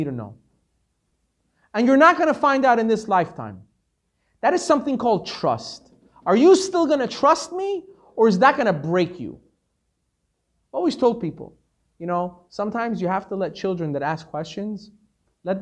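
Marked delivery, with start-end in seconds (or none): 6.3-9.4 challenging question. Pretend. God challenging the listener directly.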